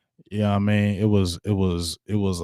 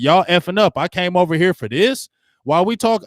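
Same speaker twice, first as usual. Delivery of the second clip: higher-pitched, exasperated retelling of a coach; imitating mad coach; 6 semitones higher than usual. Fed-up coach scolding his players, retold as mildly mad. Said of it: "He mad".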